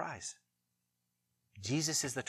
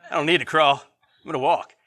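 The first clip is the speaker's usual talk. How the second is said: put-on toddler's boast; 11 dB louder than usual. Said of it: "He's like".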